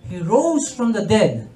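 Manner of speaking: slow, solemn preaching; solemn sermon. Real, not acted. Preacher telling of the resurrection to the crowd, slow and solemn. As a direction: let each word land with weight.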